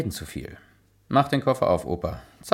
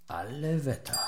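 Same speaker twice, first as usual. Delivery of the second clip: amazed; 4 semitones higher, 10 dB quieter than usual. Acted. Awed on entering shop.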